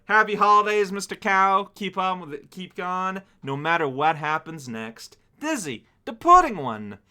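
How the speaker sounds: high, loud holiday sign-off; reading letter aloud. Acted. Streamer reads viewer's holiday sign-off, lifted read-aloud voice. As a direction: read the closing wishes out with lift.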